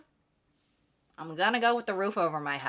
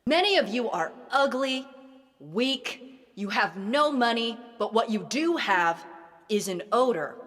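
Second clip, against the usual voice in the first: motivational speaker. Acted. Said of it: "motivational speech using this method".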